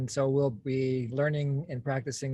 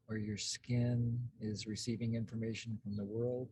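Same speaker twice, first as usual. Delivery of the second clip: calm, unhurried guidance with long pauses; guided meditation; 2 semitones lower than usual. Real, not acted. Host guides group into present experience, calm meditation voice. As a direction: lead them gently into noticing, leaving space between phrases. Leads a self-connection exercise.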